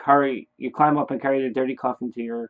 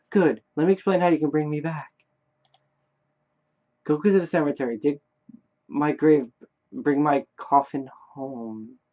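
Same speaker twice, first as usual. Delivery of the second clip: lightly voiced ghostly child, a bit higher; dead son instructing; 3 semitones higher than usual. Dead son tells Daddy how to revive him, lightly raised measured voice.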